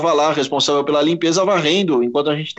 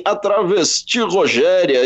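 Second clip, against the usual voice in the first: mock reporter voice; slower than usual. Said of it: "o boletim começava assim".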